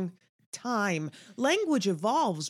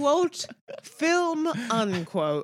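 air quotes; 7 semitones higher, 3 dB louder, much slower than usual. Pretend. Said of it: "quote ... unquote".

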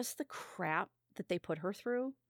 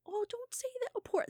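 mock consoling. Diner comforting crying man, voiced.

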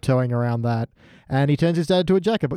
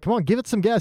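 put-on excited kid urging; 8 semitones higher than usual. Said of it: "Bart's like".

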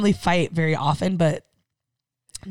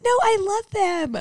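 much higher, slow gushing "No, I love them"; white girl voice; 13 semitones higher, slower than usual. Retold or imitated. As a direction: play the gushing dog-loving white girl. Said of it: "such a white girl".

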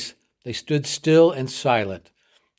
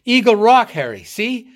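much higher and louder, a cry of joy; joyful shout; 9 semitones higher, 6 dB louder than usual. A narrator's reading. Superintendent spotting Eagle Rock for Harry, joyful shout. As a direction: shout it out as relief breaks through. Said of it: "With a shout of joy".

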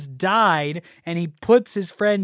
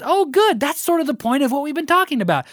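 flippant Donna; 7 semitones higher than usual. Retold or imitated. Donna answers Eddie brightly.

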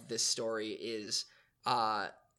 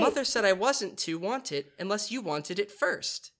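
put-on higher-pitched little boy voice; squeaked; 7 semitones higher, 4 dB louder than usual. A narrator's reading. Boy asking to share the bed, squeaky. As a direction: lightly squeak it as a child. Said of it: "he squeaked".

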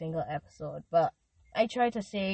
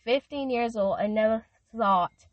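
getting emotional; 4 dB louder, slower than usual. Real, not acted. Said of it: "look at me getting emotional".

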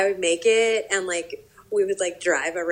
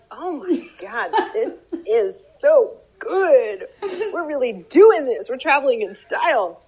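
laughing, high mock gushing; retold rapture; 6 semitones higher, 6 dB louder than usual. Retold past delight, laughing at herself.

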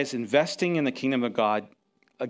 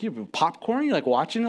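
incredulous; 4 semitones higher than usual. Retold or imitated. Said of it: "I'm like".

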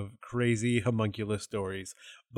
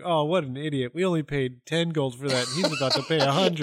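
condescending aside, slightly raised pitch; 4 semitones higher, 4 dB louder than usual. Acted. Homunculus sneering at a buyer overpaying, condescending. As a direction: scoff at someone else's stupidity, half laughing by the end. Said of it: "just condescendingly".

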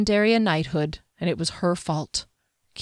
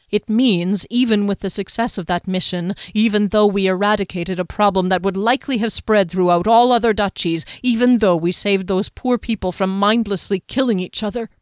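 building from firm to louder and heated; rising intensity; 4 dB louder than usual. Acted. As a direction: push harder with each clause. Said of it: "his voice caught as his intensity increased".

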